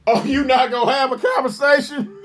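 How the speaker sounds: fast, yelled mock of the man's reply; mocking shout. Host mocking the man in the clip, fast mocking shout. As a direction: throw his words back, fast and yelling.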